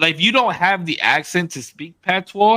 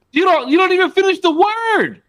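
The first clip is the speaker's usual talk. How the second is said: much higher mocking voice; high hammed-up Spanish speaker mimicry; mock Dominican speaker; 11 semitones higher, 4 dB louder than usual. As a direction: parody how they clip the words.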